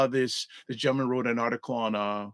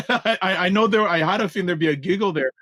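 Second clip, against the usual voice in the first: high, loud, laughing through the words; real laughter bubbling over a question; laughing while talking; 6 semitones higher, 5 dB louder than usual. Real, not acted. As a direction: giggle through it as you speak.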